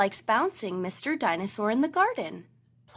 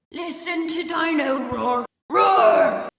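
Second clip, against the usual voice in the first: louder, higher toy shout building to a roar; toy dinosaur roaring; 6 semitones higher, 8 dB louder, slower than usual. A narrator's reading. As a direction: blast it out like a noisy toy. Toy wakes up roaring at night.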